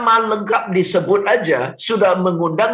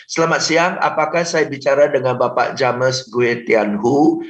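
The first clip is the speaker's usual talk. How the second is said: stiff formal script; 3 semitones lower than usual. Shown as a demonstration. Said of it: "Itu udah undang ditolak".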